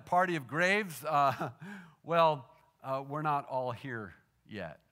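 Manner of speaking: retold sheepish, giggly admission; stammering nervously through a half-giggle. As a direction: hesitate with little nervous laughs between phrases. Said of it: "I was nervous now, and I may have giggled".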